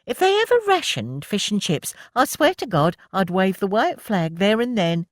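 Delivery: high, loud, mock-dramatic; Milly groaning over the last chip. A narrator's reading. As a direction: ham up the pleasure. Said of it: "Milly groaned".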